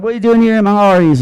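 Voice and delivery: quick, high-pitched mock British accent; a famous singer. A famous singer questions a passer-by in the restaurant, high British accent. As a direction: chirp it in a put-on British accent. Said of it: "So he's like".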